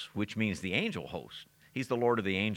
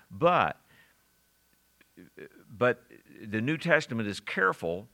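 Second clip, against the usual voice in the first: usual speaking voice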